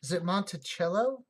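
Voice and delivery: Monticello said as mon-tuh-CHEL-o, asking; questioning pronunciation. Shown as a demonstration. Streamer checking chat's preferred Monticello, unsure pronunciation. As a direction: test the Italian ch in Monticello. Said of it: "how we like to pronounce it".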